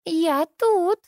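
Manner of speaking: put-on high squealing child call; Katya squealing. A narrator's reading. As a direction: squeal it out like a little girl. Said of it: "заверещала Катя".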